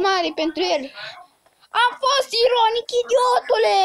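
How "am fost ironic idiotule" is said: higher-pitched annoyed outburst; real irritated raised voice; exasperated. Real, not acted. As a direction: snap back, fed up at being misunderstood. Exasperated at someone who misunderstood.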